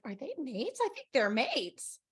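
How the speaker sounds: small, tentative retold thought; hushed suspicion. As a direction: voice a quiet dawning hunch. Recalls own hushed suspicion.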